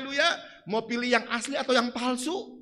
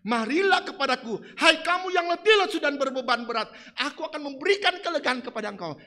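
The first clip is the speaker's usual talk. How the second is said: louder proclaimed invitation; 3 semitones higher, 5 dB louder than usual. Acted. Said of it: "waktu Yesus berkata".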